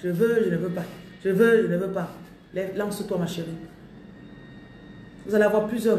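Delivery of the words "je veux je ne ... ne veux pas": teasing imitation of someone dithering, half laughing; lightly laughing mock dithering; mock indecision. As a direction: mimic a hesitant person playfully. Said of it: "tu faisais comme ça, là".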